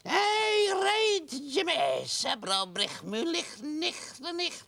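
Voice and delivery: broad hammed-up Scottish voice, high and loud; a comic Highland Scot hawking his wares; Scottish accent. Shown as a demonstration. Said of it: "This is Hint of the Highlands".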